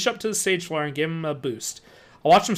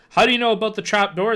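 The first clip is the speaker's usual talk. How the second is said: sandpaper voice; 5 semitones higher, 4 dB louder than usual. A narrator's reading. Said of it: "demanded in his sandpaper voice".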